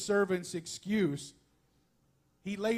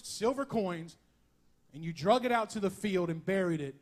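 angry disappointed. Retold or imitated. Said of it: "I could hear the anger and the disappointment".

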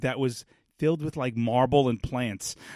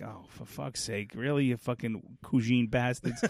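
muttered curse; 2 semitones lower, 6 dB quieter, slower than usual. Retold or imitated. Muttering his reaction under breath.

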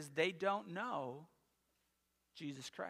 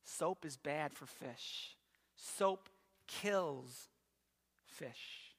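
lower, slow, softer, dropping to a whisper on fish; grave warning; 5 semitones lower, 4 dB quieter, much slower than usual. Retold or imitated. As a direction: spell it out slowly, like terrible news. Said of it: "And he goes".

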